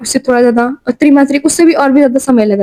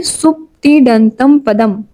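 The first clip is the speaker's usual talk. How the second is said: slow recitation; much slower than usual. Shown as a demonstration. Teacher to class, repeating the sutra slowly so they memorise it. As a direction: say सुप्तिडंतम पदम slowly, each syllable drawn out. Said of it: "उसका सूत्र क्या है".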